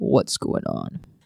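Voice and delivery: breathy, hushed radio-host voice. Playing Teskar asking from the other side of the boat, in his radio show voice. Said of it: "in Teskar's new radio show voice".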